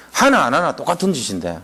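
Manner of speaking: ordinary delivery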